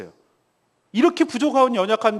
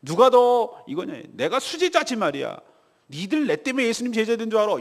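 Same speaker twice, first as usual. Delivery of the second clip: boastful squabbling; 4 semitones higher than usual. Retold or imitated. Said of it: "제자들끼리 싸웠어요".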